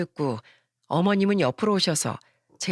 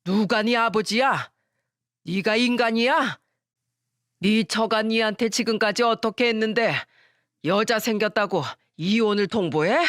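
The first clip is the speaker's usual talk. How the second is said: angry father. Acted. Father scolding his son.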